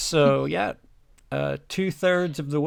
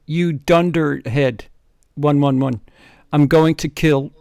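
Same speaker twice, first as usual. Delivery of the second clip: loud villain rage; 3 semitones higher, 10 dB louder than usual. Acted. Co-host voicing the villain roaring at the students. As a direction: roar the threat like a pantomime baddie.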